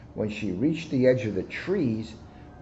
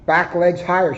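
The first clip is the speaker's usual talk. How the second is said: higher, louder coaching call; shouted coaching; 6 semitones higher, 6 dB louder than usual. A narrator's reading. Rabbit coaches Muggs with an encouraging shout. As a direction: cheer her legs up. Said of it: "she shouted".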